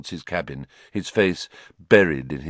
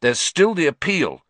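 fierce; 8 semitones higher, 3 dB louder than usual. A narrator's reading. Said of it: "said Ron fiercely".

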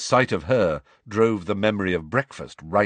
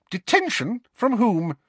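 higher, clipped questioning; strict professor interrogating a pupil; stern teacher; 14 semitones higher than usual. A narrator's reading. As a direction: demand it crisply. McGonagall questions Harry.

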